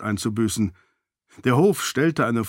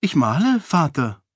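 bright, higher mock-surprised answer; feigned surprise; 4 semitones higher than usual. Daughter answering the king with feigned surprise. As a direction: play innocent as if nothing is odd. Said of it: "mit gespielter Überraschung".

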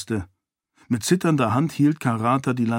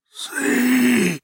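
put-on a high, quiet yet firm old voice; leise, aber bestimmt; old man voice, soft but firm; 13 semitones higher than usual. A narrator's reading. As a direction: speak gently but with certainty, like an old sage. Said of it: "Die Stimme des alten Elantrias klang leise, aber bestimmt".

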